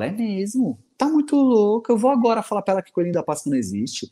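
hammed-up angry rant, rushing; a dad losing it, half joking; mock furious father. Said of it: "E eu falo". (pai furioso de brincadeira, acelerado)

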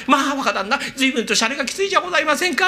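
courtesan's voice. Retold or imitated. The speaker voicing the courtesan scolding the young master playfully. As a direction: tease him sweetly as the courtesan. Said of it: "花魁".

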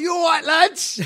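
high, loud mock greeting hollered at the lads; calling out. Friend calls to the lads from his van window, calling out. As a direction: holler it like a cheery gunman from a van.

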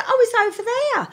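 high, breezy mock-calm voice; imitating a calm bloke. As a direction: toss it off lightly. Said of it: "it's just".

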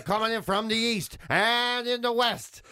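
slow announcer intro; fighting game announcer. Retold or imitated. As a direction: hype it like a ring introduction. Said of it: "the weather person would be there going".

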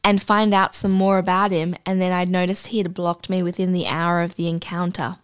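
measured read-aloud storytelling voice; story narration. Acted. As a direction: read the anecdote aloud, composed. Reads out an anecdote.

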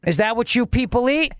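a hint of a pompous governor showing off; mock Cuomo. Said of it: "now it's back to Don, Don Cuomo".

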